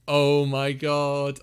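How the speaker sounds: slow laughing oh my god. Real, not acted. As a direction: laugh through the words. Laughing at a pun.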